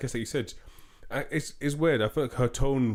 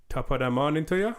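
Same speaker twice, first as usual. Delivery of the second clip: mock Irish accent; 6 semitones higher, 3 dB louder than usual. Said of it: "let's do Jamaican accent".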